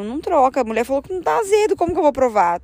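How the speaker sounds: high, hurried inner protest; retold anxious thought. Retells nervous silent plea to partner.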